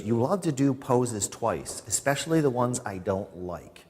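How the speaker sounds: exaggerated mock spousal complaint; imitating his wife. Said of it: "She doesn't talk like that".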